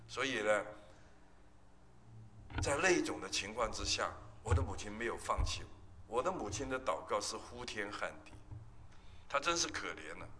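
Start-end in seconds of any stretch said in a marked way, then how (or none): 6.2-8.3 said softer, held back; subdued. Shown as a demonstration. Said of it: "她的祷告是呼天喊地".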